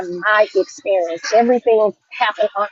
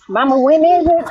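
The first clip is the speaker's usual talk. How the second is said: imitating daughter; 6 semitones higher than usual. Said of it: "My daughter was asking me".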